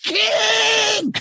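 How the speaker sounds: high shout across the gym; shouted call. Retold or imitated. Students spotting teacher at morning basketball, shouting. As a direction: yell his name to get his attention.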